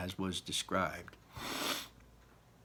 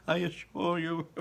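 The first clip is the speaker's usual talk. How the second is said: high, loud laughing reassurance; high giggling Wonka; 11 semitones higher, 5 dB louder, slower than usual. Acted. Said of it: "he said, giggling".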